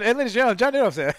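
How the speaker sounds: announcer voice. Pretend. Mock announcing a guest arrival.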